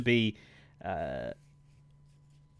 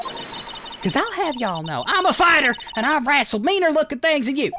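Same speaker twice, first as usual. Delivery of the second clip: much higher and louder Southern redneck voice; a scrappy Southern fighter squaring up; Southern accent; 7 dB louder than usual. Acted. Southern witness threatening the lawyers, high loud Southern accent.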